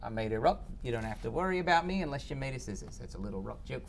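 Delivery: soft, bad New Zealand accent; Korg in New Zealand accent. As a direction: put on a terrible Kiwi accent. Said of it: "That's my Korg from Thor Ragnarok".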